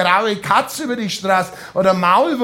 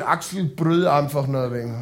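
gurgled; 5 semitones lower than usual. Retold or imitated. Narrator mimics being choked by Axel, lightly gurgled. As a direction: squeeze it out as if half strangled, lightly. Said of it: "hab ich rausgegurgelt".

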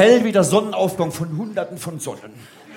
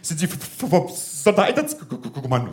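nervous stutter on the v; stammering bomb expert; 4 dB quieter than usual. Acted. Nervous bomb disposal man asks, stuttering. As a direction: stumble over the first sound. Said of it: "gestottert hat er".

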